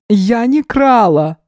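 put-on high, slow voice of a wary old woman; old gypsy woman. A narrator's reading. Old woman feigning ignorance to the detective, high and slow. Yana denies theft.

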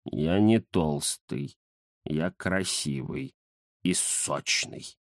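низко, тихо и медленно, любуясь собой; подбочениться и протянуть; самодовольный кот. Acted. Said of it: "подбоченился кот". (Захар самодовольно тянет о себе)

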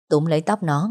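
ordinary talk, nothing marked

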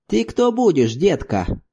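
lightly voiced hundred-year-old man asking; a hint of an old man peering; old grandfather. Grandfather asks the girl who she is, in a lightly aged voice. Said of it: "видел он плохо".

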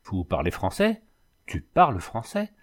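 astonishment building, pitch climbing each time; stupefied. A narrator's reading. Dragoon discovers she speaks his language, growing stupefied. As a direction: climb from baffled question to amazed exclamation. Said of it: "d'un ton aussi stupéfait".

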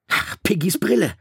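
high, loud sudden call; Ralph calling out. A narrator's reading. Ralph calling out about Piggy's glasses, loud. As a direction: shout out the realisation. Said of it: "rief Ralph".

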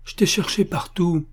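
relieved at finding her; happy, with a touch of emotion; glad and moved. A narrator's reading. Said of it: "content et ému de la voir là".

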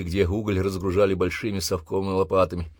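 ordinary delivery

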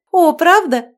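high, loud gushing "правда"; delighted surprise. Acted. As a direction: throw up hands in delight. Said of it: "всплеснула руками Марьяна". (восторженно, высоко и громко)

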